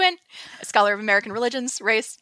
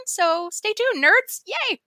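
excited sign-off; 9 semitones higher, slower than usual. Real, not acted. Signing off to listeners.

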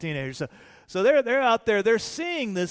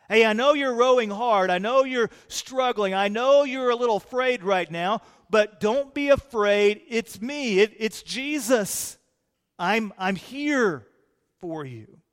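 reassuring Jesus; 4 dB louder than usual. Acted. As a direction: lean in and reassure the struggling rowers. Preacher voices Jesus comforting.

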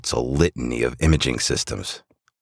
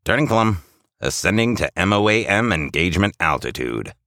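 lightly voiced, higher-pitched pilot; Rudolph; 6 semitones higher than usual. A narrator's reading. Rudolph announces the climb to the crew, light pilot voice. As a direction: cut in with a flight call. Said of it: "interjects Rudolph".

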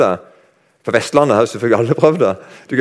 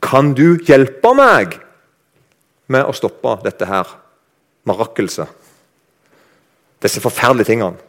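pleading prayer. Acted. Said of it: "Og så spør de Jesus".

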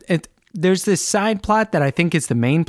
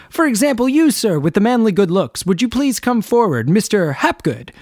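higher, theatrical doctor singling someone out; showman doctor; 5 semitones higher than usual. Retold or imitated. Host voicing Hapgood picking a patient, theatrical and high. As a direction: present him like a stage host. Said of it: "Hapgood goes".

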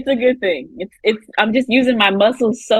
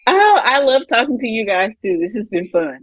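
smiling voice. Real, not acted. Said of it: "my cheeks hurt from smiling so hard".

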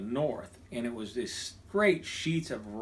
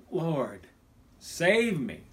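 prayer of panic; 3 semitones higher, much slower than usual. Retold or imitated. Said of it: "It's a prayer of panic".

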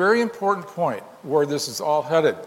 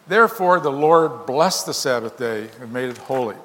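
scripture reading. Acted. Preacher reading Exodus to his congregation, solemn proclamation.

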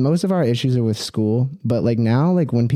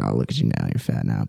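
much lower voice, teasing dad's jab; imitating his dad; 5 dB quieter than usual. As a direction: drop way down like a father poking fun. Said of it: "He's like".

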